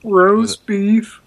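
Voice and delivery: hyped-up ad pitch; excited announcer voice. Retold or imitated. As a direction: sell the roast beef like a fake-excited pitchman. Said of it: "excited sounding voice".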